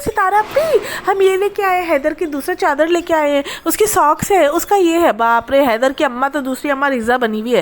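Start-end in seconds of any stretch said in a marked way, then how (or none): 0.0-5.1 lightly raised, eager mock voice of the aunt; a hint of the aunt showing off her gifts; imitating the aunt. Vlogger mimics the aunt showing off gifts, lightly raised mock voice.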